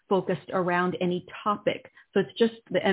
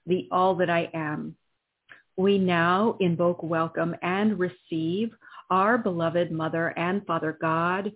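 solemn invocation. Acted. Invocation in healing session.

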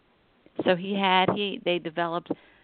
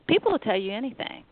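ordinary talk, nothing marked

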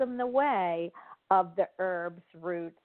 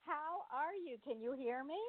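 call dropping out; 6 semitones higher, 14 dB quieter than usual. Real, not acted. Bad radio call connection.

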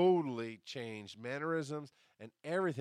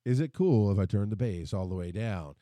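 louder retake; 3 semitones lower, 9 dB louder than usual. Shown as a demonstration. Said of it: "I'm gonna do this again".

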